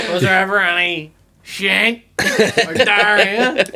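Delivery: can't hold the laugh on the punchline; laughing through it. Real, not acted. Telling friends the prank-call punchline, laughing loudly.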